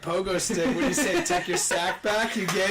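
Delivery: high, laughing movie-character voice; lightly voiced movie quote, half-laughing; Gina movie quote. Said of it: "Gina from the forty-year-old Virgin".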